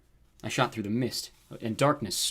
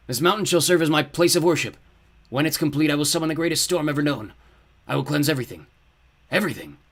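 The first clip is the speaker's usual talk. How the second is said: loud, raised villain proclamation; grandiose fiery lord; 5 semitones higher, 7 dB louder than usual. A narrator's reading. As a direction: proclaim doom, dropping on the final word. Dark lord proclaims his plan.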